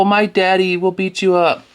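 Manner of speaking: high whiny mock repeat of the taunt; childish taunt echoed back; mocking whiny kid. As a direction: sneer it like a crybaby. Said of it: "Look at, oh".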